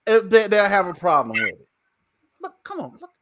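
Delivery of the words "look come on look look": whisper. Real, not acted. Showing off watch on camera.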